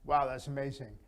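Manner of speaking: low, bored tone; no interest at all; flat monotone. Shown as a demonstration. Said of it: "Completely different".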